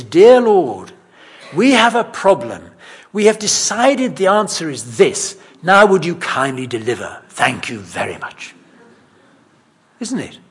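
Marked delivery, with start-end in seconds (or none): 0.0-8.5 mock bossy prayer. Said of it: "what they basically say is".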